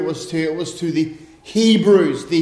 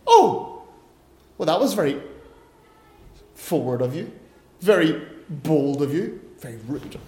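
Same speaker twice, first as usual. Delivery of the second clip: offended Irish lady; 4 semitones lower than usual. Retold or imitated. Irish lady offended by a blunt yes, mock-affronted. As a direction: act affronted at the rudeness. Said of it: "the Irish lady got really offended".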